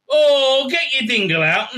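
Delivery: high, loud hammed-up begging; mock pleading excitement. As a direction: egg him on in a silly high voice. Acted nagging of the actor.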